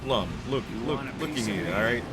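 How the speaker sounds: mock Brooklyn wise guy, explaining; put-on Brooklyn accent. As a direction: lay out your case in a Brooklyn accent. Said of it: "The accent slipping".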